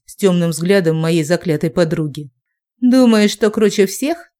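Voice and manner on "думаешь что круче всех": spiteful sneer. Acted. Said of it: "Зло прищурила глазки брюнетка".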